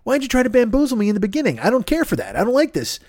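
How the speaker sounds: high, hammed-up indignant complaint; a high, mock-offended rant at the host; mock indignation. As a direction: act betrayed and scold him. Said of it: "which I'm like".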